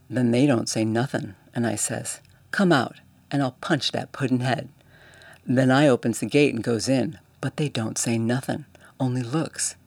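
lightly voiced Cockney bellhop telling a tale; a touch of a lively London servant, getting worked up; Cockney bellhop retelling a fight, mildly excited. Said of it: "Thomas's Cockney dialect".

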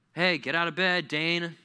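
parent's wake-up call. Acted. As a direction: call out to rouse a sleeping kid. Parent rousing sleeper.

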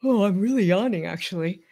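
sarcastic fake yawn with a laugh; deadpan bored, then laughing; bored sarcasm. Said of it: "I'm yawning".

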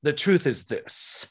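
lightly voiced drag diva, sassy; a hint of a drag diva preaching truth; stage talk, diva in the wig addresses crowd, light sass. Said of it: "she gets put on my beautiful little bald head".

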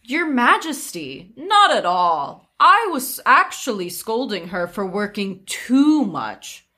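sweetly overdone sincerity; disguised sarcasm. Acted. Widow deceiving the nosy prince, veiled sarcasm. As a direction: feign polite praise with lilting stresses. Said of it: "with well-disguised sarcasm".

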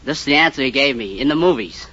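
ordinary delivery

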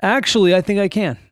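a joking slip on Actually; teasing on purpose. Pretend. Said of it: "See what I did?".

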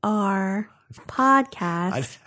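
slow, even robot voice. Shown as a demonstration. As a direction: spell it out like a robot. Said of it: "say it like a robot".

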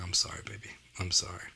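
whispered tender sorry to his daughter; tender apology. Retold or imitated. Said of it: "And I was like".

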